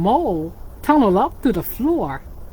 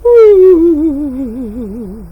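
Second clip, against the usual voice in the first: snore sound; 2 semitones higher, 8 dB louder than usual. Shown as a demonstration. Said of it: "can you snore like a friend?".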